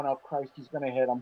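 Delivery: very low, hushed mutter under the breath. Retelling how a classmate reacted, imitating muttering under her breath. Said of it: "I could hear under her breath going".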